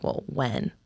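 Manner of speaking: breathy, near-whispered question; hushed aside. Retold or imitated. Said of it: "It's almost like".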